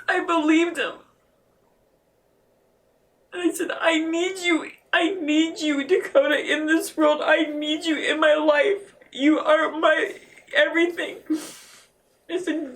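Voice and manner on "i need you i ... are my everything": retold pleading. Mother pleading with her son.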